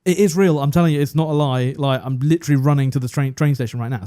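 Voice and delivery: lightly mimicked panting urgency; out of breath. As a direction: imitate an urgent phone call made on the run. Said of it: "he's, like, severely out of breath".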